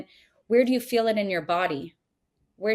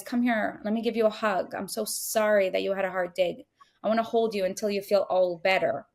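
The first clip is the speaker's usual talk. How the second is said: gentle, soothing mother's voice; feminine comforting mother. Retold or imitated. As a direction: hold the child with your words. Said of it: "The feminine way is".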